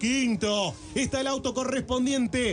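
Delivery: live race call, building at the start; motorsport commentator. Acted.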